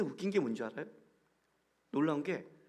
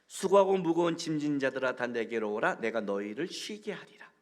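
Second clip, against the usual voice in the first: measured, solemn Bible reading; scripture reading; 3 semitones lower than usual. Acted. Pastor reading the verse to the congregation, solemn.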